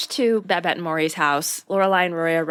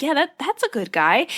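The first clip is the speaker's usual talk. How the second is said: encouraging; 5 semitones higher, 3 dB louder than usual. Retold or imitated. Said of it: "trying to cheer her on".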